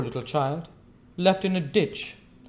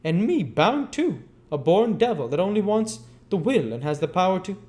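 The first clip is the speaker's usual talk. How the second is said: loud, high raging tirade; mad with rage; 10 semitones higher, 6 dB louder than usual. A narrator's reading. Old Fagin ranting at the girl, mad with rage. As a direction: spill it out in a torrent of wrath. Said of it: "mad with rage".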